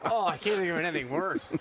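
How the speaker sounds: laughing while talking. Real, not acted. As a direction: talk through a laugh. Laughing at funnel idea.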